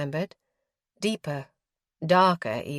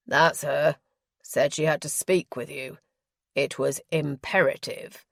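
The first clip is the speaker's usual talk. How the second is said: mocking her speech; 4 semitones lower than usual. A narrator's reading. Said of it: "Again the man mocked her speech".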